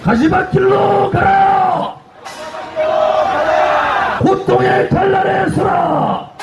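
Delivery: slow, high shouted slogans, each line a battle cry; rally the crowd with a drawn-out roar; roaring rallying speech. Real, not acted. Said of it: "마지막 구호하겠습니다".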